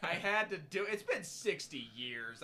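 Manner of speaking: loud, high hammed-up Boston accent; Kennedy Boston accent. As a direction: boom it like Kennedy. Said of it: "Mister President".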